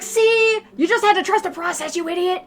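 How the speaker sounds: high, loud, smug; teasing told-you-so. Retold or imitated. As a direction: gloat playfully. Friends teasing.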